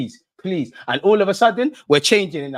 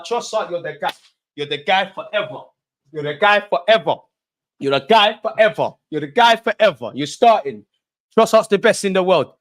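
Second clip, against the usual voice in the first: insistent praise, building louder and higher; emphatic praise; 4 semitones higher, 4 dB louder than usual. Real, not acted. Fan hailing Trossard after doubting him, emphatic and building. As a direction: hammer home the praise, rising with each repeat.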